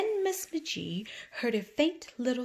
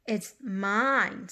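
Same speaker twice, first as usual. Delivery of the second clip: squeaking vole. Acted. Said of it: "squeaked the vole".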